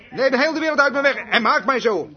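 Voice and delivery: high, eager retold plea; fervent cry. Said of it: "schreeuwde hij het gewoon uit". (vurig uitgeroepen smeekbede)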